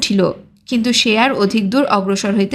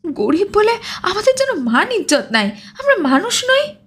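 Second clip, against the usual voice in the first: higher, tearful, wounded voice; on the verge of tears; 9 semitones higher than usual. Acted. Poor blacksmith lamenting his lost dignity, close to tears. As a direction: let the pitch climb as tears catch the words. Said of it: "অকস্মাৎ সে কাঁদো কাঁদো সুরে আবার বলিল".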